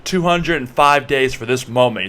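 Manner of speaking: mock-epic, drawn-out delivery; dramatic declaration. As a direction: declare it grandly, stretching out the number. Mock solemn answer to Siri.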